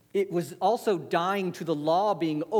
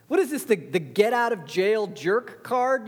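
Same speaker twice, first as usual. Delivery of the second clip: mocking scoff; 5 semitones higher than usual. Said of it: "Or they would say".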